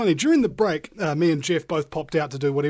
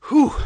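breathless whew; 11 semitones higher, 10 dB louder than usual. Real, not acted. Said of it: "I'm totally out of breath".

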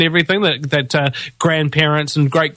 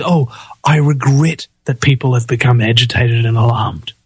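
mock regret; 3 semitones lower than usual. Mocks Key's stated regret.

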